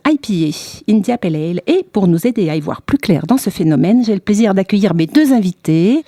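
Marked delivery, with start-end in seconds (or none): 0.1-1.6 English-style "I P A, India Pale Ale"; English pronunciation. Shown as a demonstration. Host showing French listeners the name, English pronunciation. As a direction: say the beer name with English letters and sounds. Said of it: "se prononce donc à l'anglaise".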